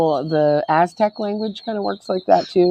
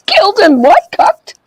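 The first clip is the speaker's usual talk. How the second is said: surprised; 14 semitones higher, 5 dB louder than usual. Real, not acted. Incredulous at odd word.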